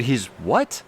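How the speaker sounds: retold double-take, rising on WHAT; disbelieving. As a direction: ask it as if you misheard. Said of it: "clearly I heard that wrong".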